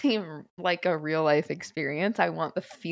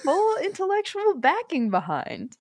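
high, slow, rising uptalk; 13 semitones higher than usual. Pretend. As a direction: lift every phrase up high at the end. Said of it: "upward inflection at the end of every sentence".

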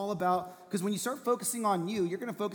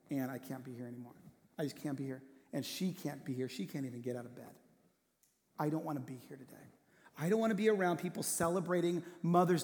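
low, subdued confiding voice, sinking quieter; retold grief; 3 semitones lower, 5 dB quieter than usual. Grieving friend explains why he can't face Mother's Day, subdued. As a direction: quietly retell a heartbroken friend's words, without sobbing. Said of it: "he had been crying".

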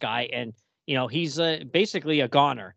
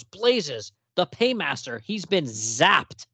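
Dead Man exclaiming; much slower than usual. Retold or imitated. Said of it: "and Dead Man goes".

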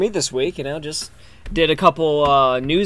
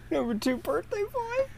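questioning; 9 dB quieter than usual. Real, not acted. Incredulous echo.

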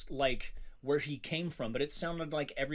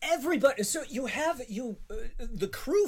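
worked-up rant; 9 semitones higher than usual. Real, not acted. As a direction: argue it with rising exasperation. Keeps ranting about the cast.

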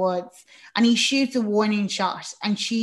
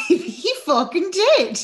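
real laugh through the words; higher, drawn-out delivery while cracking up; laughing agreement; 9 semitones higher, 5 dB louder, slower than usual. Real, not acted. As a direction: agree through giggles, pitched up. Reacts to co-host's joke, laughing.

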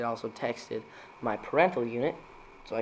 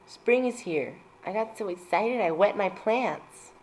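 mock excitement; 7 semitones higher, slower than usual. Excited dad joke voice.

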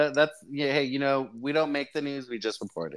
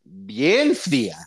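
repeating the vendor call; slower than usual. Shown as a demonstration. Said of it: "you gotta talk like a street vendor".

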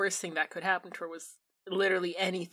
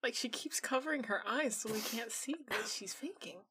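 whispering; 8 dB quieter than usual. Real, not acted. Gossiping about crier.

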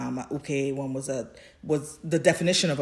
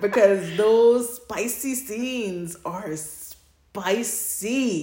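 teasing; 4 semitones higher, 4 dB louder, much slower than usual. Real, not acted. Teasing about spicy scenes.

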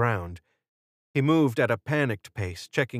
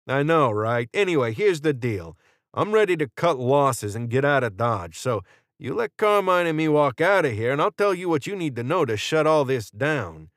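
higher, animated dealmaker with a gun; Jordan; 5 semitones higher, 4 dB louder than usual. A narrator's reading. Jordan offering Israel a deal to walk out, lively and cocky. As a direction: pitch the deal briskly and confidently.

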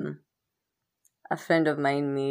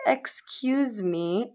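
indignant; 7 semitones higher, much slower than usual. Retold or imitated. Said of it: "I was like".

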